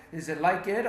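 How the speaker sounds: "like it" said as two syllables, like-id; puzzled try at like-id. Acted. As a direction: turn the ED of "like it" into a separate "id". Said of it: "how do I pronounce the E D".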